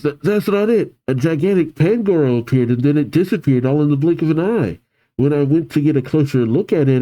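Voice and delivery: stammer, then hurry through the explanation; flustered rush. Acted. Startled boy explains what he saw.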